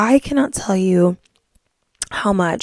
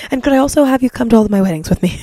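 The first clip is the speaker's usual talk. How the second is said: playful cheeky ask; 3 semitones higher, 6 dB louder, much faster than usual. Retold or imitated. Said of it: "And I'm like".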